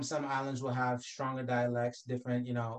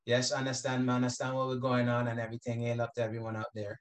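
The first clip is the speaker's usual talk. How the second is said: Caribbean shout-out. Pretend. Shout-out to island people.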